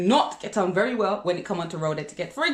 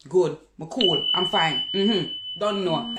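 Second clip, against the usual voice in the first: lightly voiced offhand mumble, slowing at the end; a hint of a bored, mumbled brush-off; mock rude reply; 3 semitones lower, slower than usual. Shown as a demonstration. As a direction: brush them off, half-hearted and dismissive. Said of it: "don't just say".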